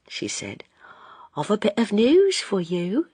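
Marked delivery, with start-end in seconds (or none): 1.3-3.1 shy whispered confession. A narrator's reading. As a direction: breathe it into his ear. Daughter confiding to father.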